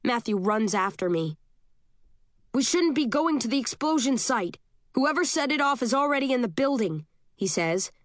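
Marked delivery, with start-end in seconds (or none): 2.5-7.0 higher-pitched, mildly urgent argument; urgent warning. Acted. Matthew arguing against going to the explosion site, mildly urgent. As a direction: warn a companion with pitch raised, volume contained.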